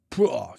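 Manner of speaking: imitated vomiting noise; mock retching. Telling listeners Jess throws up, mock retch. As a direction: spit out a playful "pwah" of throwing up. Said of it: "Jess barks up the meager contents".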